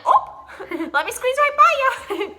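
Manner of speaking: high, laughing Midwestern ope. Retold or imitated. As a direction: squeeze past with a laughing ope. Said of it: "now I'm like".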